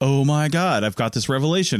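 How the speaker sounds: normal talking voice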